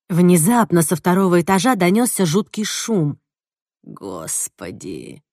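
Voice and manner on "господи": low, slow, drawn-out groan; a deep, slow despairing moan. Acted. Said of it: "простонал Тимоти".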